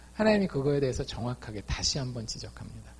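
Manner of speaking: ordinary talk, nothing marked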